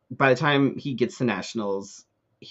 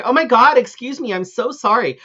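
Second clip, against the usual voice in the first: high, loud impression of an oblivious latecomer; loud mock apology; 9 semitones higher, 6 dB louder than usual. Drunk woman pushing into the row mid-show, loud mock apology. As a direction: imitate her blaring excuse-mes, pitched way up. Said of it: "Like, loud".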